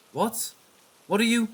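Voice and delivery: high, panicked cry; terrified cry. Acted. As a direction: shout it in panic.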